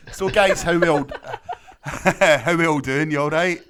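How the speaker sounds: excited laughing greeting. Real, not acted. Host's loud laughing greeting.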